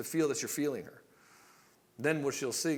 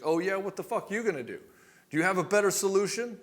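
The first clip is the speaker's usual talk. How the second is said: higher, louder challenge as a fed-up wife; spicy retort; 7 semitones higher, 5 dB louder than usual. Acted. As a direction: throw it back at him, mock-combative. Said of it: "the fact that she gets spicy".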